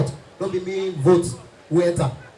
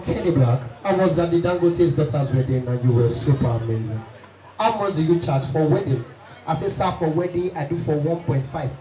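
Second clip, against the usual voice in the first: very low, thick big-man voice; lower, heavy voice of the rich caller; 5 semitones lower than usual. Retold or imitated. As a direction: drop into the rich man's deep growl. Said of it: "rich men and thick voice".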